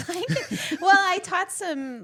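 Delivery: high, giggly protest; laughing. Real, not acted. Explaining past runway teaching to teasing friends, laughing.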